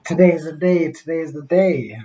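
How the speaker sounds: put-on a four-year-old bursting with excitement; imitating an excited child; excited little boy. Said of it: "comes running downstairs all excited".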